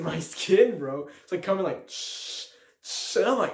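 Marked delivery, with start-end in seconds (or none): 1.9-3.2 voiceless shushing sound; imitated ember hiss. Storyteller mimics falling fire embers, imitated hiss. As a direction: mimic sparks sizzling down.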